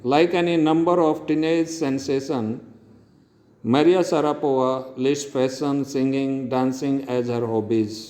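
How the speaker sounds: slow, careful reading voice, word by word; slow slide reading. Acted. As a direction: read the slide out clearly for the class. Reads English slide text slowly. (धीमे-धीमे, साफ़ पढ़ने का लहजा)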